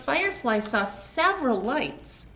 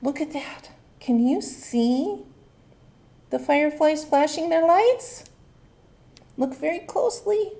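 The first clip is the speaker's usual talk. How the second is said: eager wonder; 4 semitones higher than usual. Real, not acted. Inviting kids to look.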